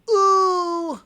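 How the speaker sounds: loud high ooh of delight. Real, not acted. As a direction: squeal with delight at the sound. Reacting to the heavy sound.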